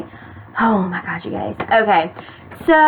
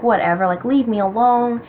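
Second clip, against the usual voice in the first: fed-up dismissal. Retold or imitated. Telling him to leave her alone, fed up. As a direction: retell being done with him. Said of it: "I was just done".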